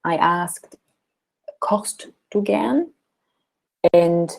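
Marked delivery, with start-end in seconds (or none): 1.6-2.9 "Kochst du gern?" slow, with "gern" rising up; "gern" lifted like a question mark; rising question tune. Shown as a demonstration. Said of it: "So you ask me like I ask you".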